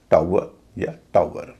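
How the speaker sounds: "टावर या टावर" with a clear au glide, slowly; British and American pronunciation. Shown as a demonstration. Teacher showing learners British and American "टावर या टावर", careful au pronunciation. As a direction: say "टावर या टावर" slowly as tau-er, two ways. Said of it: "इन शब्दों का उच्चारण इस तरह होगा".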